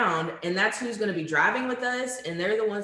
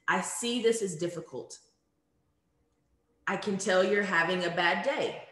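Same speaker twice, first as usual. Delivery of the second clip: empathetic. Shown as a demonstration. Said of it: "An example is".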